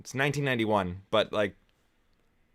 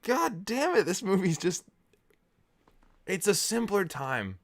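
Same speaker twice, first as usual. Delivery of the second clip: choked up; 8 semitones higher than usual. Real, not acted. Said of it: "I'm getting emotional".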